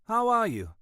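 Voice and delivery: high, cut-glass English greeting; cut-glass accent. A narrator's reading. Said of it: "with a cut glass accent".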